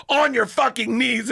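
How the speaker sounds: slow, high-pitched imitation of an escalating order; insistent mock dominatrix. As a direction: draw out the mock command forcefully. Dominatrix repeats order more forcefully.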